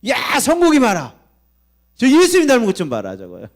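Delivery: put-on high, loud proud call, showing off his child; God boasting proudly. God shows off a believer to heaven, calling loudly and proudly. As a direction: call out proudly like a delighted father. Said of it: "하나님 보면서".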